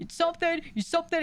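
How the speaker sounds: very high, rattled-off, furious angry yelling. Describing a clip where a man yells at the cop who arrested him, retelling a yell. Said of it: "crashing out on this cop".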